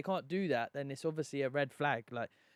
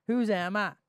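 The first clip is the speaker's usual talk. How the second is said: a playful put-on Welsh accent, raised and louder; 6 semitones higher, 5 dB louder than usual. Teasing his co-host about Love Island in a Welsh accent. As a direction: ask it like a lad from the Welsh Valleys. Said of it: "it's my Welsh accent".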